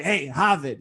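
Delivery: loud Boston-accented call; thick Boston accent. Shown as a demonstration. Boston native mocking the old way of talking, thick Boston accent. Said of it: "sometimes it's really thick".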